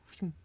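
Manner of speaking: airy "phew" of a bullet passing; whizzing sound effect; imitated bullet whiz. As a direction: mimic a shot zipping by. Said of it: "I swear I heard it, it was like".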